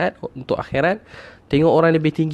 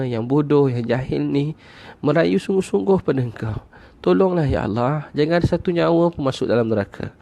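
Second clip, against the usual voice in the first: retold tearful plea; 3 semitones higher than usual. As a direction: plead humbly with God, without real sobbing. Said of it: "Dia nangis, dia kata".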